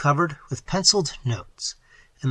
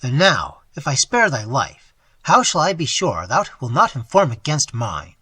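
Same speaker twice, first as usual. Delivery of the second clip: cold threat; 5 dB louder than usual. Acted. Robber threatens old man.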